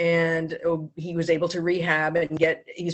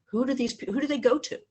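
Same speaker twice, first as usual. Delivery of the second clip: son tearing up. Retold or imitated. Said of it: "he started crying".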